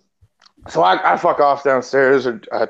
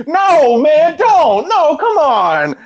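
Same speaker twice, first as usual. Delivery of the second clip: much higher, louder panicky pleading; panicked friend voice; 12 semitones higher, 4 dB louder, much slower than usual. Retold or imitated. Friend refusing a free figure, high panicked voice. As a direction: plead like you're terrified of the gift.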